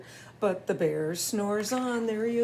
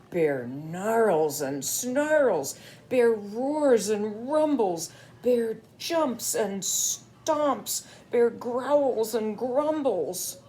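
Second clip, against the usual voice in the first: growly bear voice; slower than usual. Acted. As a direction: rumble it like a grumpy bear. Reading the bear's rampage.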